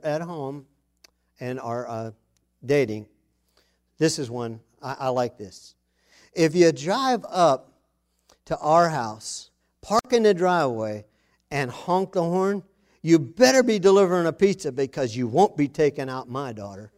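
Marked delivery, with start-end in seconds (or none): 6.3-16.9 protective dad. Retold or imitated. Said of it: "those of you who still have daughters".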